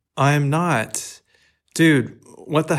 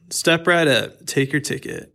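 cocky; 3 semitones higher than usual. Acted. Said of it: "Now you sound cocky".

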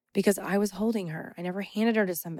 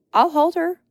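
retold firm refusal; 8 semitones higher, 10 dB louder than usual. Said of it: "And I'm like".

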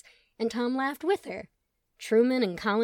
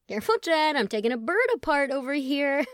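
loud warning; 6 semitones higher, 5 dB louder than usual. Acted. Tom warning playfully.

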